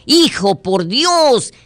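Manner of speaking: fed-up mom yelling over a drum; angry shout. Acted. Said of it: "le grita enojada".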